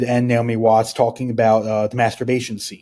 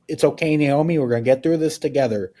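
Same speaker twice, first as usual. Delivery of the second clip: Lynch impression; 3 semitones higher than usual. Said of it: "Naomi Watts imitating David Lynch saying".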